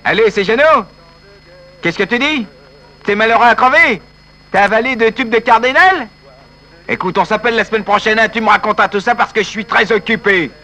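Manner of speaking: offhand on the phone, hurrying fast at the end; busy and indifferent phone call; heartless brush-off. Acted. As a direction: get rid of him quickly, barely listening. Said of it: "si vous êtes sans cœur".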